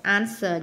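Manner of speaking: "Answer" stressed on the first syllable. Shown as a demonstration. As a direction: hit the opening syllable of "Answer". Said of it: "nhấn âm một".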